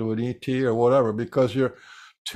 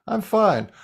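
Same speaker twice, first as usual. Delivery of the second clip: marker voice; 7 semitones higher than usual. Shown as a demonstration. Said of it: "the marker is talking in the mark voice".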